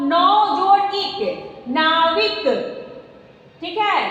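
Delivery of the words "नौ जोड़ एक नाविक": नौ जोड़ एक drawn out very slowly, each word apart; slow sounding out. Shown as a demonstration. Teacher slowly spelling out नौ जोड़ एक for pupils, drawn out. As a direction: stretch नौ जोड़ एक out slowly for the class. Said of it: "देखिएगा बोल करके".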